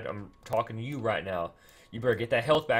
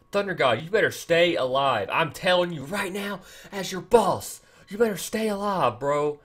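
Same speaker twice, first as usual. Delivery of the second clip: stern warning; 4 semitones higher, 3 dB louder than usual. Real, not acted. Warns hero to stay alive.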